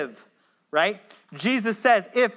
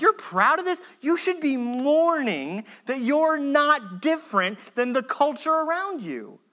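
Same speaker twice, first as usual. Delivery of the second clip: incredulous rebuke; 5 semitones higher than usual. Retold or imitated. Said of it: "Paul's like".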